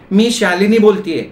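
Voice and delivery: high, rasping woman's voice on a call; harsh, rasping voice. Acted. Wife announcing herself on the office phone, harsh rasping voice. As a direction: announce yourself in a raspy high voice. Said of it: "पलीकडनं खरखरीत आवाज आला".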